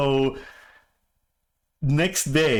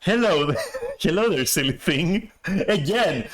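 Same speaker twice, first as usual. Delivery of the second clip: teasing greeting; 3 semitones higher than usual. Retold or imitated. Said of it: "my initial reaction was like".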